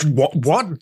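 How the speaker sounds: sputtered shocked what; spit take. Real, not acted. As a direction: choke on your drink, then what. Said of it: "the audio version of a spit take".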